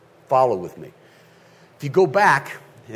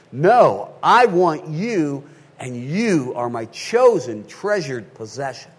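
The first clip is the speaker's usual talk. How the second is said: voicing the groom; 4 dB louder, slower than usual. Voicing groom declaring to bride.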